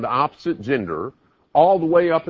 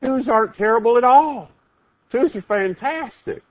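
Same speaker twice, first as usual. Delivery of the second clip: enthusiastic; 11 semitones higher than usual. Real, not acted.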